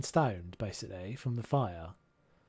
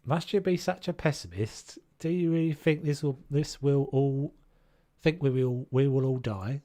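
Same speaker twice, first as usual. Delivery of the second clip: put-on actorly voice; Alec Guinness; 3 semitones higher, 3 dB louder than usual. Character challenging a pessimist, lightly impersonated film actor. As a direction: play it as a stagy old-film actor. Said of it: "I went Alec Guinness then".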